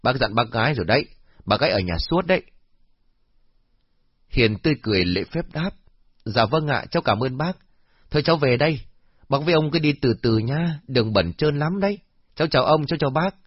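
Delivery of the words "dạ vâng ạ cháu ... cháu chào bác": lightly voiced polite young girl, pitched higher; a cheerful student politely taking leave. Hien voiced politely in a story. (cô gái trẻ lễ phép, giọng hơi cao)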